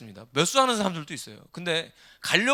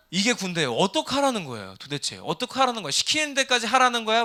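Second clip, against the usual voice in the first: mock-baffled complaint, building higher and louder; exasperated protest; 4 semitones higher, 4 dB louder than usual. Preacher voicing soldiers stuck between contradictory army orders, exasperated. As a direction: throw up a frustrated protest, pushing harder with each question.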